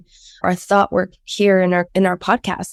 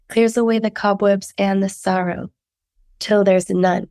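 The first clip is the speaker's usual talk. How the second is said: sick voice. Real, not acted. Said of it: "enjoy my sick voice".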